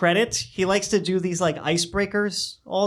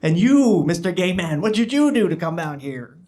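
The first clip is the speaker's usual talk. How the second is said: loud, gleeful devil voice; 5 dB louder than usual. Acted. Devil delighted by Hitler, then quizzing the gay man, loud and gleeful. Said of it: "And the devil's like".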